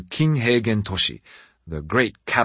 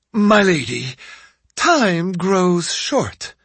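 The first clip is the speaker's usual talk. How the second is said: firm servant voice; 9 semitones higher, 4 dB louder, slower than usual. A narrator's reading. Masao interrupts his lady.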